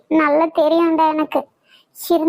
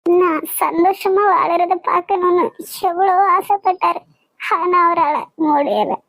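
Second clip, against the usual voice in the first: crying. Acted. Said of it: "அழாதம்மா".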